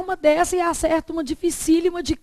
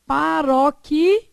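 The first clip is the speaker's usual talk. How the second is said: syllable by syllable; 4 dB louder than usual. Shown as a demonstration. Teacher spells out the stress category.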